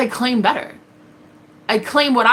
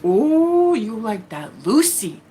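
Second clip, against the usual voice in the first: mocking taunt; much slower than usual. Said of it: "and he goes".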